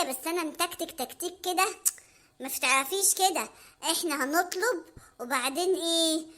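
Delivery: put-on low, conspiratorial boyfriend voice; scheming Hamada. Hamada whispering his grab-and-run plan to Mona. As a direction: pitch the dine-and-dash plan.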